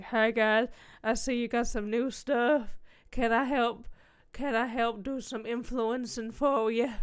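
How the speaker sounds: loud, put-on voice asking for work; hammed-up influencer offering help; put-on eager pitch. Creator pitching herself to Logitech, mock eager.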